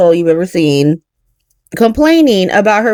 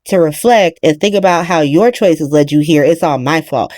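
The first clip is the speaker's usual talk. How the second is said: low, lightly voiced moment of clarity; mock realization; 4 semitones lower than usual. Mother having a moment of clarity, low and hushed. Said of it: "where she's like".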